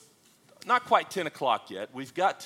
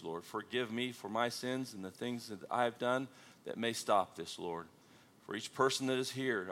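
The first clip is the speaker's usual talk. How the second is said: prayer. Acted. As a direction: pray humbly over the congregation. Leads opening prayer.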